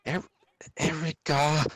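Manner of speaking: sharp, worried call; anxious call. Acted. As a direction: call out to her in alarm. Calling after her anxiously.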